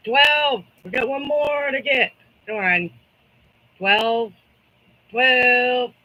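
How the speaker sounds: high, loud calling out twelve; rally the room like an auction; auctioneer. Pretend. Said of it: "I feel like an auctioneer".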